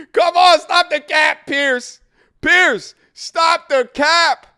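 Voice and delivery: slow, loud, high mock-British plea; terrible British accent. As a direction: draw it out in a bad British accent. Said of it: "That was a terrible accent".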